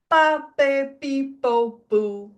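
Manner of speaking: clipped quick Pa, pe, pi, po; short and snappy. Shown as a demonstration. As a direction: snap each syllable short. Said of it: "short and snappy".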